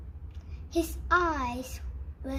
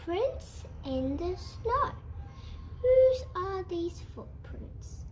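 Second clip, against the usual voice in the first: hooting owl; 5 semitones higher than usual. Acted. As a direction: call out like a delighted owl. Owl calling out at the snow tracks.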